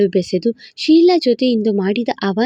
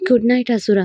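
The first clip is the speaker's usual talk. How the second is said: Good night in the wife's own lighter voice; wife's good night. Acted. Wife says good night.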